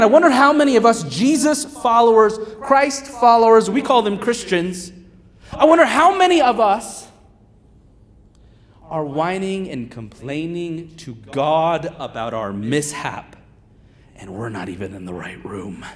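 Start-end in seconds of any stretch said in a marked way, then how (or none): none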